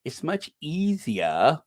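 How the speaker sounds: slow, snooty imitation of Dan Wooten; a mock-posh drawled quote; mocking posh mimicry. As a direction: sneer it like a pompous snob. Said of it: "Nasty individual".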